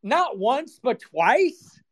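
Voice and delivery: high, disbelieving exclamation; incredulous outburst. Retold or imitated. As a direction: act out the shock of hearing it. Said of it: "I was like".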